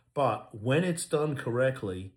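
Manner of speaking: slow, with the word correctly leaned on hard; slow down and press on correctly; stress on correctly. Real, not acted. Lawyer stressing proper use of the Baker Act, slow emphasis on correctly. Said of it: "and I emphasize the word correctly".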